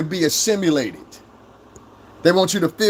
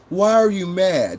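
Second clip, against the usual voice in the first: mock soft man; 6 semitones higher, slower than usual. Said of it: "When you hear a man say".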